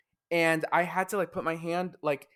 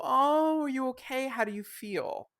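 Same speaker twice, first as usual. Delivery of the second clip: coddling parent; 8 semitones higher than usual. Retold or imitated. Parent soothing a little girl who fell, high cooing. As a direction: coo like a worried parent. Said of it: "they go".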